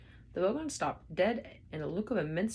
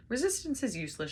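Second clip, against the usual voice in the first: shout; 7 semitones higher than usual. A narrator's reading. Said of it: "shouted the Vogon guard".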